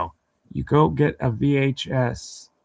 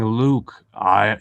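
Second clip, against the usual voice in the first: Darth Vader voice; 2 semitones lower, 3 dB louder than usual. Retold or imitated. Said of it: "he said it just like Darth Vader".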